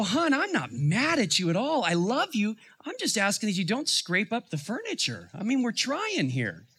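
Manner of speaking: high-pitched, gentle reassurance; retold fatherly comforting, lightly pleading; reassuring dad. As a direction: soothe a hurt child with lifted pitch. Father voiced reassuring upset daughter.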